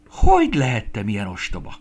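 loud self-reproach, strong at the start; exclaiming. A narrator's reading. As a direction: cry out at your own foolishness. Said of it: "kiáltott fel". (hangosan felkiáltva, önmagát korholva)

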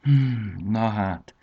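relieved, with a drawn-out hum; relieved sigh. A narrator's reading. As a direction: let out a relieved hum first. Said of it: "sóhajtott megkönnyebbülten".

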